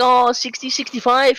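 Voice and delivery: high-pitched, hesitant guess at the answer; retold sheepish reply, pitched well up. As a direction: offer it tentatively in a high voice. Caught speeding, guesses speed to cop.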